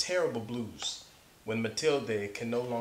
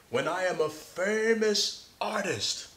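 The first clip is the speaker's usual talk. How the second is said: put-on young boy's boast; 7 semitones higher than usual. Child's boast quoted in story.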